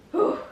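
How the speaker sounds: big "whew" breath out; sharp exhale. Real, not acted. Vlogger gearing up to head out, exhaling hard. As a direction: blow out a bracing breath.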